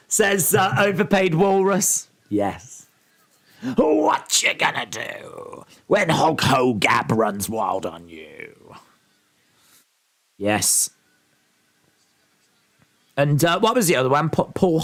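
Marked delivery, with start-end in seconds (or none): 3.7-8.8 Hulk Hogan impression. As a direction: ham up the old wrestling promo. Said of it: "Joker is Hulk Hogab".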